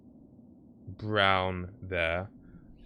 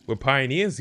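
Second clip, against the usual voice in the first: mock Canadian accent; 4 semitones higher, 4 dB louder than usual. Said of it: "Crying at your Canadian accent".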